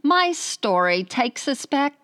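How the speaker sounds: British attempt slipping into Australian; botched British, landing on an Australian accent. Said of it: "That's Australian again".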